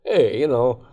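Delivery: lightly put-on character voice; odd voice. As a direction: keeps the silly voice going. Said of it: "I did that voice".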